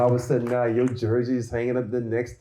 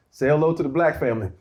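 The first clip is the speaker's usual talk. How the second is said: quick retold quote; 4 semitones higher, faster than usual. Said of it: "Chris goes".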